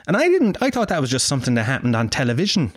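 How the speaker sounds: ordinary talk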